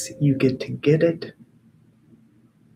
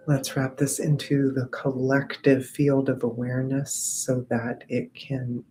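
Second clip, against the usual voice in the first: guided meditation. Acted. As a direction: send it out gently to the group. Guides collective energy work.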